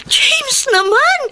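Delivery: wife's long pleading groan at her husband; exasperated protest. Acted. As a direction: stretch it out in exasperation at your husband. Wife protests husband's drug job.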